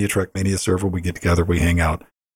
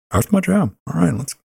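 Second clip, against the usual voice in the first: excited; 9 semitones higher than usual. Retold or imitated. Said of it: "I just don't know a lot of people that went".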